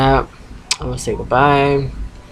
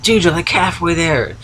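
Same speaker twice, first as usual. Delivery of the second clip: mildly imitating an irritated friend; 6 semitones higher than usual. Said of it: "He just started getting ticked off".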